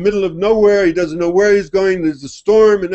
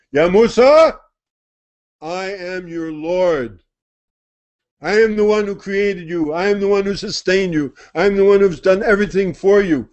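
solemn divine voice; 4 semitones higher than usual. Acted. Divine voice speaks to Musa.

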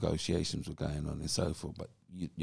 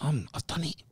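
excited; 10 semitones higher than usual. Retold or imitated. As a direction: burst out with the good news, reenacted. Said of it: "something of excitement".

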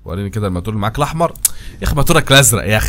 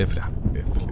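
softly whispered plea; 6 dB quieter, faster than usual. Real, not acted. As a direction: whisper it to the tap. Repeats, whispered. (همس ناعم)

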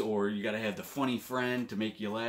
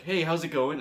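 fake smile greeting; 5 semitones higher, 3 dB louder than usual. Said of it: "I put on a quick fake smile".

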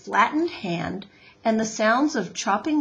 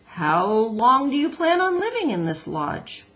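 gruff beaver voice; 4 semitones higher, 5 dB louder than usual. Acted. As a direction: bargain like a grumpy beaver. Mister Beaver asks.

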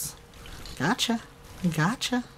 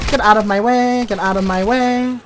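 loud, higher angry yell; angry shout; 7 semitones higher, 10 dB louder than usual. Real, not acted. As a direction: shove them aside with the voice. Fighting through enemies.

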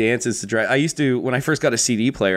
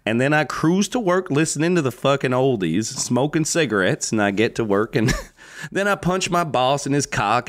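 hammed-up ad-style dad narration; mock wholesome dad. Parody of blue collar morning.

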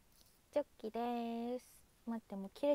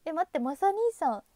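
loud, high burst of delight; loud delighted reunion cry; excited squeal; 4 semitones higher, 11 dB louder than usual. Real, not acted. Viewer returns after long absence.

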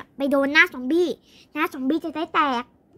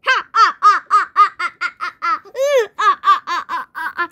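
long staccato stage laugh; mock-triumphant ha-ha-ha; hero's laugh; 4 dB louder than usual. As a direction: laugh on and on, hammed-up. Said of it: "พ่ออย่ามัวแต่ขำสิ".

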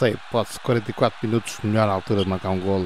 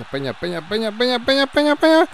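building urgent call; 12 semitones higher, 4 dB louder, faster than usual. Real, not acted. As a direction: urge him on, more each time. Urging a player on. (apelo crescente, cada vez mais alto)

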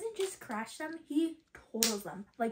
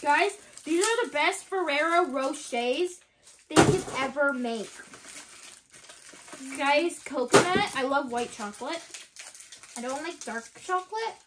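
normal talking voice

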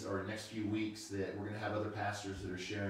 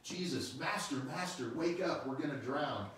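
mock yell; 5 semitones higher than usual. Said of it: "they were yelling".

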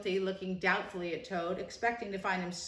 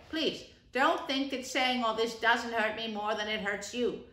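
higher, gentle persuasion; kindly rat; 4 semitones higher, 3 dB louder than usual. Acted. Rat urges Toad to turn over a new leaf, kind. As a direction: coax him toward a fresh start.

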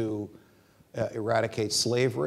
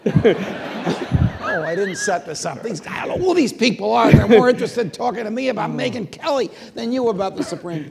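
higher and louder, amused denial; laughing protest; 11 semitones higher, 11 dB louder than usual. Retold or imitated. Judge denying to Scalia he set it up, laughing. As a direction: swear you had nothing to do with it.

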